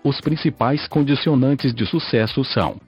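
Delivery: synthetic computer voice reading; robotic text-to-speech narration. Real, not acted. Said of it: "falo através desta voz sintetizada".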